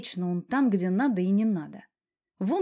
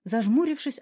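ordinary delivery

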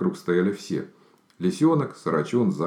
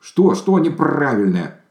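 high, loud, slow alarmed question; worried bird demanding an answer; anxious and drawn out; 9 semitones higher, 6 dB louder, slower than usual. A narrator's reading. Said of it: "встревожился Сарачун".

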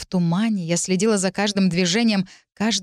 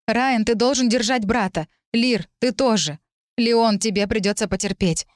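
panicked; 3 semitones higher than usual. Acted. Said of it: "В панике предупредила я".

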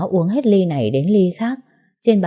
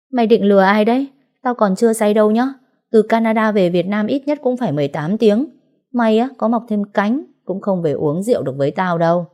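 louder, higher tipsy banter down the phone; drunk loud teasing; 5 semitones higher, 3 dB louder than usual. Acted. Drunk friend mocks her on the phone, loud tipsy teasing.

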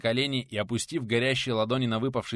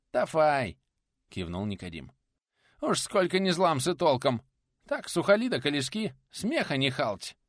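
toothless lisping craftsman; 5 semitones higher than usual. Acted. Nikodim arguing about drying bricks, high lisping exasperation.

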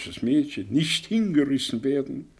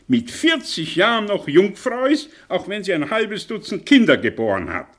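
scornful tirade; 6 dB louder than usual. Acted.

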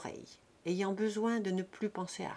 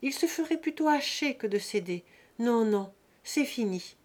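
crying out; 3 semitones higher, 4 dB louder than usual. Acted. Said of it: "s'écria Lise".

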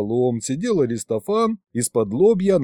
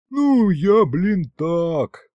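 high, louder flustered excuse; embarrassed; 6 semitones higher, 3 dB louder, much slower than usual. A narrator's reading. Demon explains himself to his boss, embarrassed. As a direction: stumble through it, pitched up. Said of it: "засмущался бес".

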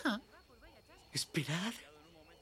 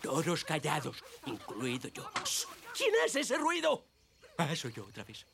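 soft, low hushing; hushed; 10 semitones lower, 5 dB quieter than usual. Acted. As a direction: hush everyone while hiding. Hiding, hushing everyone.

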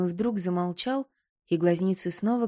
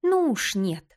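angry; 3 semitones higher, 4 dB louder than usual. Acted. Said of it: "разозлилась".

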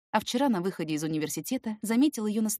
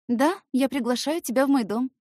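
put-on high teasing girl voice; 6 semitones higher, 5 dB louder than usual. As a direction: invite him sweetly. Girl's voice.

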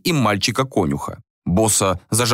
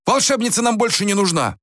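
high-pitched raised voice; acted call across a distance; calling after someone; 12 semitones higher than usual. A narrator's reading. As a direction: holler the message to your son. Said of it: "окликнул Рюйс сына".

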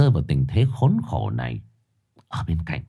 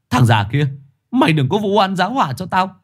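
higher, louder furious protest; angry retort; 11 semitones higher, 3 dB louder than usual. Acted. Chồn argues hotly against the lying shaman. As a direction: yell back, neck straining. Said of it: "Chồn gân cổ cãi".

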